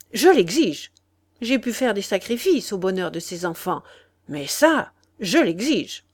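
put-on father insists to the old lady, curt and categorical. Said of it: "d'une voix nette, catégorique".

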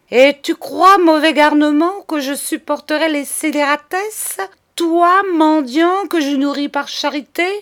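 loud, high-pitched indignant tirade; réprimande furieuse. Acted. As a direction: scold the boy with scorn and outrage. Cousin scolds Charles, acted quarrel. (tirade indignée, forte et haut perchée)

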